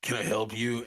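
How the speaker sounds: lightly voiced sluggish server; reluctant counter worker. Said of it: "this pink-haired slug".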